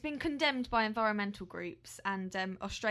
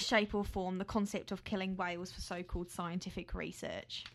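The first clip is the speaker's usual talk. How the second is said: Australian accent; 4 dB quieter than usual. Shown as a demonstration. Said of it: "so I should probably say it like this".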